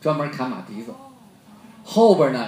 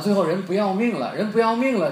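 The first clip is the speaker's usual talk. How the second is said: higher and louder, pressing the point harder the second time; emphatic climax; 6 semitones higher, 6 dB louder than usual. Real, not acted. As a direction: drive it home like the climax of a sermon. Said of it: "emphatic climax repeated". (激昂地加重强调)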